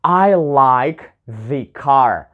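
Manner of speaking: slow, weighty "I like the car" with "the" leaned on; emphatic the. Shown as a demonstration. Teacher demonstrating emphasis on "the" with a slow, weighty delivery. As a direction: lean on "the" to show strong feeling. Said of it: "like, emphasis on something".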